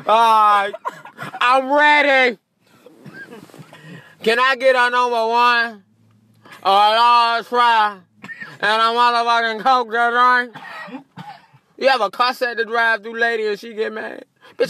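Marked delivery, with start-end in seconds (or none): 0.1-10.6 loud order. Retold or imitated. Customer finally orders at drive-thru.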